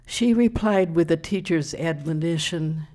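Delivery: measured comic verse reading; deliberate, lightly emphatic recital; poem recital. Acted. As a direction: set up the punchline line by line. Reads comic quatrain to audience.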